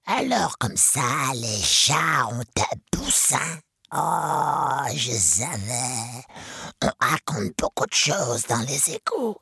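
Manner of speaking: lightly voiced scheming rat boss; a hint of a gloating sewer rat; sly rat chief. Rat chief taunting Zorba about the chick, sly.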